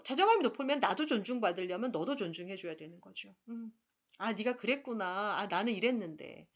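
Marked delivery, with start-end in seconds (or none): 4.2-6.5 calm, respectful reply. Shown as a demonstration. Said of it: "이렇게 해야 되는 게 정말 일치된 의사소통".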